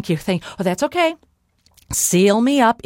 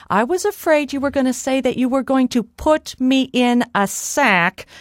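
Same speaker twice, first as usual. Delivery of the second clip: mildly overplayed dread; feigned pleading; 5 semitones higher, 4 dB louder than usual. Molly begs giant not to sack her, mock pleading. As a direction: beg a little too earnestly.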